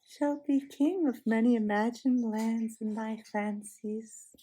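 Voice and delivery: put-on slow, humoring a child; soothing, humoring. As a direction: lull him like a child. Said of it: "in a soothing voice, as if she were humoring a child".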